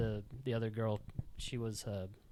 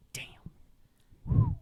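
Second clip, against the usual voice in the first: tag stunned; 4 dB louder than usual. Retold or imitated. Narrator's stunned reaction in story.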